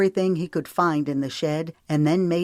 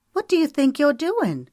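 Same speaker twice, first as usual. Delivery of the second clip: high, indignant challenge; sharp young woman; 11 semitones higher, 4 dB louder than usual. A narrator's reading. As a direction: catch him red-handed. Sarah confronts Otis.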